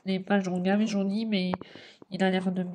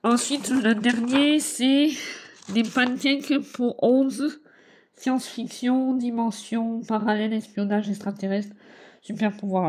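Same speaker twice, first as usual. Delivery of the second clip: excited announcement; 3 semitones higher, 3 dB louder, slower than usual. Acted. Announcing the next book.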